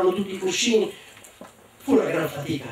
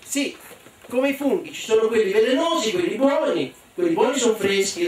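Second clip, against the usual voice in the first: put-on child explaining; 5 semitones higher than usual. Boy explains mushrooms.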